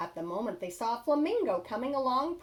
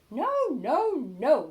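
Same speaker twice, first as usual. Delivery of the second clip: loud refusal; 2 semitones higher, 8 dB louder, slower than usual. Acted. Little wolves shouting no at the pig again, loud. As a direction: shout it through the door.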